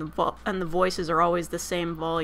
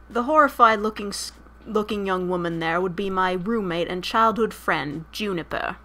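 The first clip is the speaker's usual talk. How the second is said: shaky amateur attempt at British; brash British accent. Streamer reading game narration on request, bad British accent. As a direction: read it in a badly faked British accent.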